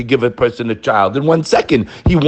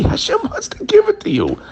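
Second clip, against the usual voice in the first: whisper. Acted. Intimate aside in sermon.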